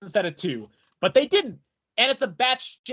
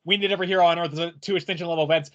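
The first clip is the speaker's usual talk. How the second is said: lower, quick run-through of a hero's plea; small-panel Dick; 5 semitones lower, faster than usual. Retold or imitated. Dick small beneath Trigon's big panel, understated. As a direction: toss it off fast, low and understated. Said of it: "Dick is small and we see his text bubble".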